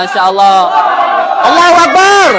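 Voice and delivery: exclaiming. Real, not acted. Preacher exclaims at the phone lights.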